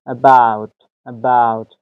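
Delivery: "About" with a weak "uh", weight on "bout"; barely touch the A of "About", land on the second syllable; unstressed first syllable. Shown as a demonstration. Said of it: "استریسی ندارد".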